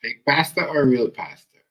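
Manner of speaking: slow, loud, drawn-out taunt; slow, loud jeer at the pastor; mocking question. Real, not acted. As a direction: stretch each word like a jeer. Commentator mocks the pastor.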